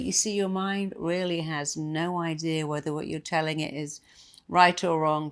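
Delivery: usual speaking voice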